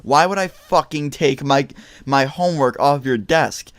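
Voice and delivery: high, slow indignant mock scream; retold screaming. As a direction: start shrill-high, drag out the outraged questions. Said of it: "I started screaming".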